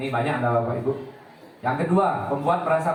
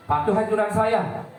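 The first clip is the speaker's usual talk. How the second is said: stern teacher order; 5 semitones higher than usual. Shown as a demonstration. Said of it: "Biasanya dia gini".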